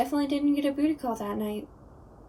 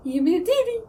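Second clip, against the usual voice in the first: silly singsong; 5 semitones higher, 6 dB louder, faster than usual. Acted. Ghost playfully tickling a nose.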